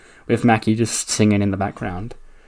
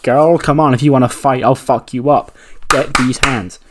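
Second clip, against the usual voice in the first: raised, acted trash talk; fighting challenge; 2 semitones higher, 4 dB louder than usual. Wrestler back on her feet challenging her attacker, mock fierce. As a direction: play someone daring a rival to fight.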